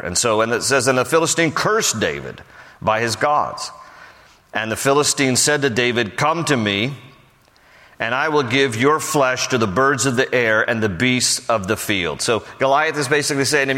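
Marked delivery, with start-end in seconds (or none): 0.9-12.2 raised, measured Bible reading; solemn scripture reading voice. Acted. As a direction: read the verse out to the congregation. Reads scripture aloud.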